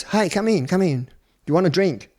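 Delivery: high, loud, hearty come-in call; the boss calling a boy in, high, loud and hearty; jovial invite. Retold or imitated. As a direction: voice a drunk boss waving a kid in. Abuser Simon's boozy welcome voiced.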